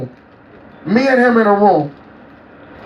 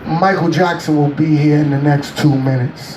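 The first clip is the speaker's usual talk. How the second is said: mock announcer; 6 semitones lower than usual. Announcer at the door.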